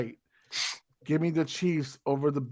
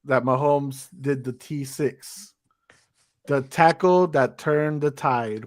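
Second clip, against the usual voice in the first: slow quoting delivery; slower than usual. Retold or imitated. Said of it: "He's saying right now".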